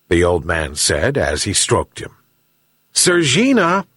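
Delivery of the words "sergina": high-pitched call to his cat; old fisherman hailing his pet. A narrator's reading. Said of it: "shouted the old fisherman to his cat".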